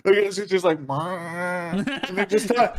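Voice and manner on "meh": drawn-out "meh"; mock wordless lap-dance sound; imitated dancer noise. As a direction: mimic a droning "meh" noise. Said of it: "That's the noise they make".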